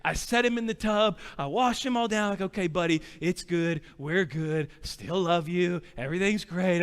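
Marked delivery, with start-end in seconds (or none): 2.4-6.8 put-on slightly lower, calm comforting of a child; gentle reassurance. Dad after washing paint off his son, gentle reassurance. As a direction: settle the little one down, kindly.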